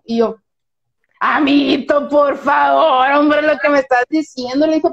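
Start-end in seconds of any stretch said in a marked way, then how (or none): 1.2-4.7 drawn-out, pleading mock protest; exasperated retort. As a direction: act out an exasperated comeback, stretching the plea. Acted retort in retold quarrel. (réplica exasperada, alargada y actuada)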